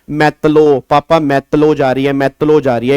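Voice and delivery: lightly imitated toddler lisp; daughter's lisp. Father mimicking his little daughter's lisp, lightly voiced. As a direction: mimic a small child's baby talk, lightly. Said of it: "मेरी daughter कई बार कहती है".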